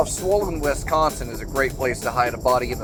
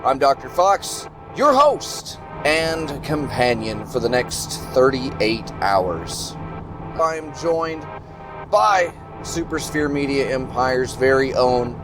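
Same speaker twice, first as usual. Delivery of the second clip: slow announcer show opening; show host voice; slower than usual. Acted. Hosting show intro.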